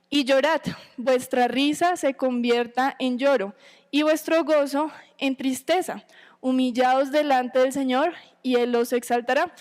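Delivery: slow, measured Bible reading; unhurried scripture reading to the congregation. Acted. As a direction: read the verses slowly and solemnly. Reads scripture aloud.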